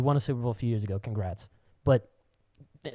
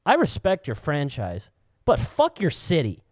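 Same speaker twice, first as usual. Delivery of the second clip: slow, louder, mock-polite jab; polite start, then the sting; cheeky insult; 3 semitones higher, 5 dB louder than usual. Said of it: "I'm like".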